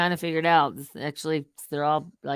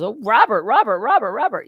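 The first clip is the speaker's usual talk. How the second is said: imitating Matt; 5 semitones higher, 6 dB louder than usual. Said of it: "Matt goes".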